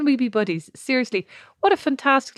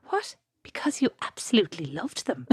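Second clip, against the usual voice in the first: soft, low, unruffled reply; very calm; 3 semitones lower, 7 dB quieter than usual. Retold or imitated. Mom answering her daughter about sandwiches, very calm. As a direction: answer the accusation without any fuss. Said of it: "very calmly".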